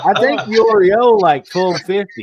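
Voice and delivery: laughing. Real, not acted. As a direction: tease him through laughter. Teasing about swear jar debt.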